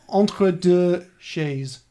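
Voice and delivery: very slow, spaced-out French accent; best French accent. Shown as a demonstration. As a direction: sound out the French accent word by word. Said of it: "let me try my best French accent".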